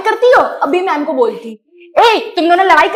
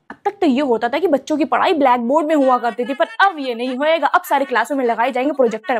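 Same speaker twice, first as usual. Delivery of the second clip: lower, softer pompous boss; bossy new principal; 3 semitones lower, 5 dB quieter than usual. Acted. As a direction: lay out grand plans like a boss. New principal announces plans.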